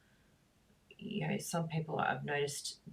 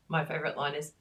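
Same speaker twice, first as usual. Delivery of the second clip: ordinary talk, nothing marked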